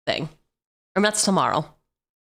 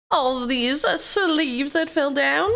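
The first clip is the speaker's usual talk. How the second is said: higher, slow mock lament; high dramatic whine; 7 semitones higher, slower than usual.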